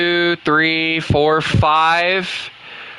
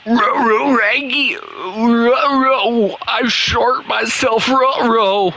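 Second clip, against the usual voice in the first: higher, strained cartoon dog voice; Scooby-Doo; 4 semitones higher, slower than usual. Gamer narrating his mistakes as a cartoon dog, strained and higher. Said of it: "why do I make Scooby-Doo sound like he's straining".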